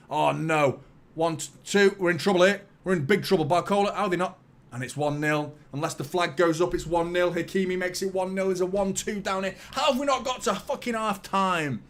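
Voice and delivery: rising exasperation at a goal going in; alarmed commentary. Real, not acted. Fan watching his team concede before half time, alarmed.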